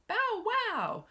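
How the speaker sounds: high, loud barking bow wow; dog bark. Acted. Teacher barking like the big red dog.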